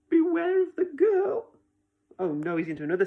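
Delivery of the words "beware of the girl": high, urgent cry of warning. A narrator's reading. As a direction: warn him sharply, rising in alarm. Refrain warning Stickman of danger.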